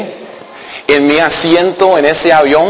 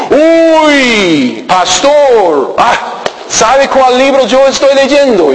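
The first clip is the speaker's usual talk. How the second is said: higher excited woman voice; imitating the woman; 8 semitones higher, much slower than usual. Pastor imitating Marilyn teasing about her book, higher. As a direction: tease the pastor with a challenge. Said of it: "ella dice".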